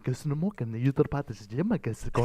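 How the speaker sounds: made-up Croatian, badly imitated; mock Croatian. Friend greeting a Croatian woman in her language, mock Croatian. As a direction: fake your way through a Croatian phrase. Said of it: "Sorry once again to all Croatian people".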